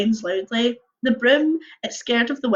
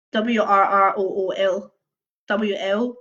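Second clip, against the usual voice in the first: spelling it out; 2 semitones lower, slower than usual. Shown as a demonstration. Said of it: "hard phonetic one".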